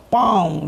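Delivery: drawn-out spoken "bang" of a rifle; vocal shot sound effect; imitated gunshot. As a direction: mimic a gun going off. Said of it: "dia tembak".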